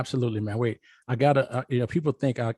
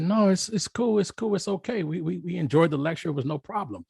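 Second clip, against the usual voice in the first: students reassuring; 7 semitones higher than usual. Retold or imitated. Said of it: "And they all said".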